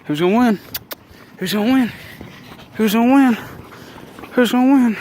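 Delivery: mock fight-night hype; hype building. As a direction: pump up the crowd, climbing each time. Hyping dogs' wrestling match.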